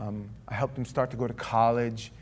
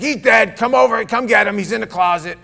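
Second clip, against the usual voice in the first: much louder, higher urgent voice; retold frantic call; 10 semitones higher, 14 dB louder than usual. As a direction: deliver the news in raw panic. Mother's call about son's death.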